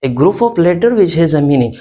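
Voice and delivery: slow, deliberate repeat of a group of letter which has a meaning; slow and deliberate, word by word; slow dictation. Shown as a demonstration. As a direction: spell the definition out slowly for the class to write. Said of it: "word की हम definition इस तरह करते हैं".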